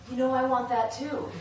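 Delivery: high, loud, laughing through the words; laughing wise voice. Retold or imitated. To the meditation group, the wise voice caves, laughing. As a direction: giggle it out as the inner sage gives in. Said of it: "the wise voice ... said".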